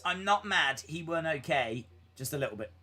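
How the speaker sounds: trailing off into a mumble; fading sulky grumble; sulky fade. Real, not acted.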